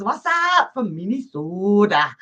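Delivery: put-on playful Fargo-style Minnesota accent. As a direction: read it out in a mock Fargo accent. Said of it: "Let's do the Fargo accent there".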